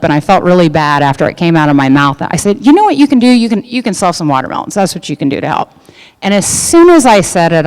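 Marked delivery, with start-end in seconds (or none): 2.6-5.7 flip retort. Retold or imitated. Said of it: "And I was kind of flip".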